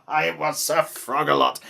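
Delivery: laughing. A narrator's reading. Narrator laughing through line.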